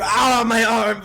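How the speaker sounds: slow, high, loud mock wail; drawn-out hammed-up yelp; crying out in pain. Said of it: "He is screaming for pain".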